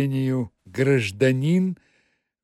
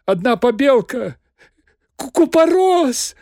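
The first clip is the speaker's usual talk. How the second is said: high, loud panicked stammer; terrified babbling; 10 semitones higher, 6 dB louder than usual. Acted. Bloodied Magarych pleading with Azazello, terrified stammering babble. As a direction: babble in terror, stumbling on the word. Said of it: "в ужасе понёс какую-то околесицу".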